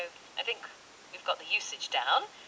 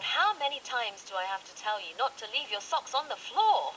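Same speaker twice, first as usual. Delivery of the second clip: mild annoyed scold; 3 semitones higher than usual. Retold or imitated. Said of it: "So then you're mad".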